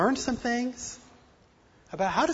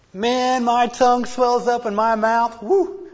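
raised pitch and louder; excited; 5 semitones higher, 8 dB louder, slower than usual. Real, not acted. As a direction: burst out with excitement. Excited about tongue-tied feeling.

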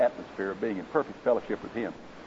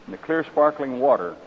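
story narration. A narrator's reading. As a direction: tell the parable gravely, savouring each image. Reads parable aloud in sermon.

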